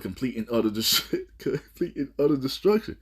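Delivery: laughing through the last words; scornful laugh as he finishes. Real, not acted. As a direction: chuckle out the doom. Mocking laugh through doom prophecy.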